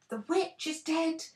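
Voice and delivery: high, loud triumphant shout; Dorothy shouting the news to the lion. A narrator's reading. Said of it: "she shouted".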